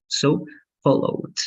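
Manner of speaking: followed with the ED said as a short t; ending like t. Shown as a demonstration. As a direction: end followed on a crisp t sound. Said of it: "that's only going to be like t".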